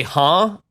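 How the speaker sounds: "Huh?" said like a question. Retold or imitated. Narrator showing the woman's verbal habit, questioning "Huh?". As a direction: imitate her querying "Huh?" tic. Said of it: "Like a question".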